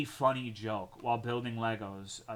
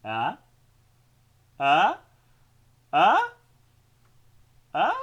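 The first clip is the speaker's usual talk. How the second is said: rising, louder and higher each time; expectant prodding; 7 semitones higher, 12 dB louder, slower than usual. Real, not acted. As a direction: nudge chat for a laugh. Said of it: "waiting for laugh".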